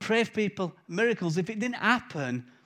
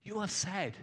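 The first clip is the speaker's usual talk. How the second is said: earnest claim; 4 dB quieter than usual. Shown as a demonstration. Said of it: "But praying".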